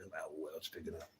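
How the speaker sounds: talking while slurping a drink. Real, not acted. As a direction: sip noisily between words. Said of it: "pardon my slurping".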